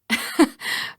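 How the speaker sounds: brief voiceless chuckle; short amused laugh. Acted. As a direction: huff a little laugh at the slang. Laughs at the word "perp.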